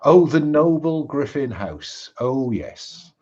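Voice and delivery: mocking lilt, leaning on so noble; the Reaper mocking the Griffin house to the Phantom, sarcastic. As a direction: sneer at their so-called nobility. Reaper mocks the noble family.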